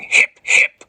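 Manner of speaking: whispered mock cheer in a put-on voice; mock crowd cheer. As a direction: cheer it like a birthday party. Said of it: "responded by screaming".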